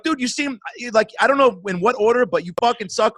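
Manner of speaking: high, mocking dude voice; mock blunt jab. Driver mocking a bad rider, high cocky jab. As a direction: tease him with a cocky sneer. Quoting himself ribbing a rider.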